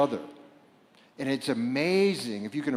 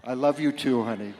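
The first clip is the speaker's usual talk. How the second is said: called back; 3 dB louder than usual. Real, not acted. Answers audience member calling out.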